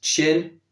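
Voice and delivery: Chin begun with a breath-only ch; unvoiced ch. Shown as a demonstration. Showing learners the unvoiced example, crisp ch in Chin. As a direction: say Chin with no buzz on the ch.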